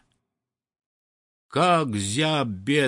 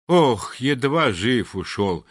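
out of breath. Acted. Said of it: "едва переводя дух".

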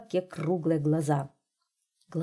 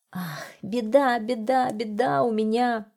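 agitated lake; 5 semitones higher than usual. A narrator's reading. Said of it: "заволновалось озеро".

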